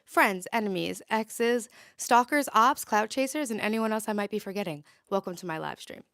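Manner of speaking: big, loud hype greeting; loud livestream intro. Real, not acted. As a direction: call it out to the whole chat.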